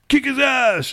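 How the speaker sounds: hammed-up cheering yell; mock shout. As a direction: yell at the screen. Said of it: "scream out at the screen".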